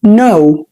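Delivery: "no" with a long rounded ow sound; "no" pronounced. Shown as a demonstration. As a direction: say "no" slowly, stretching the ow. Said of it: "زي كلمة". (نطق no بصوت أو طويل)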